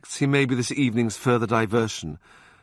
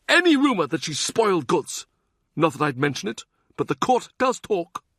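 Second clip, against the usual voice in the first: higher, silky, threatening churchman; menacing Cardinal; 8 semitones higher, faster than usual. Acted. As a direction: threaten him sweetly, pitched up. Wolsey's veiled threat voiced.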